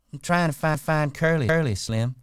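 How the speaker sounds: put-on high, loud coy young woman. A narrator's reading. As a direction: play her sweet and coy. Curley's wife voiced high.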